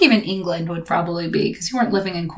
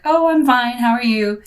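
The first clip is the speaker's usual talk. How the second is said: chipper American reply; 5 semitones higher, 4 dB louder than usual. Retold or imitated. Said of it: "the American response is like".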